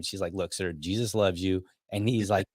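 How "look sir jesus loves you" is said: lower, gently polite retelling. Retold or imitated. Mother politely answering a yelling man, mild and low. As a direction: quote her politely, a touch subdued. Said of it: "she's really polite to him".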